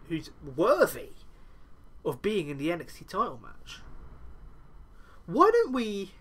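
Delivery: a hint of a smug, scheming wrestler; slowed, smug mock plea to the crowd; smug Adam Cole impression. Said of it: "Cole goes on".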